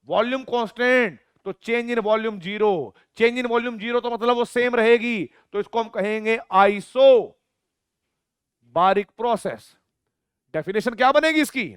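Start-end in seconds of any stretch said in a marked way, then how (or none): none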